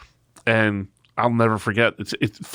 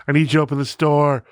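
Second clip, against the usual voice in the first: higher, droning boss impression; imitated former boss; 5 semitones higher, 4 dB louder, faster than usual. Boss repeating his Saturday demand, droning imitation. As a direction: drone the demand like the old boss. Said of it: "he used to talk like this".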